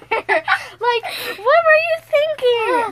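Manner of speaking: high, loud disbelieving question; exasperated outburst. Retold or imitated. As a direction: throw the question at her. Retelling spilled drink, exasperated.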